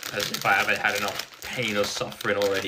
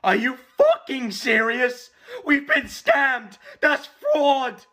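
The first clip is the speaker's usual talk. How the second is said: high, incredulous outrage; outraged; 12 semitones higher, slower than usual. Real, not acted. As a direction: rant in disbelief at the scam. Outraged at his team's signing.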